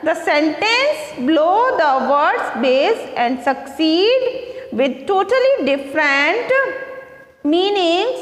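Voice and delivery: reads each English word out slowly for the class; slow, careful read-aloud; slow textbook reading. Acted. Teacher reading the book to her pupils, slow and careful.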